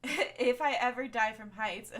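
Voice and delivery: laughing. Real, not acted. Laughing through own words.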